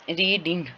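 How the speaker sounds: रीडिंग split as री, then डिंग; two separate syllables. Shown as a demonstration. Teacher showing the class two syllables, रीडिंग said in two parts. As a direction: break रीडिंग into two distinct beats. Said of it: "इसके दो syllable बन रहे हैं".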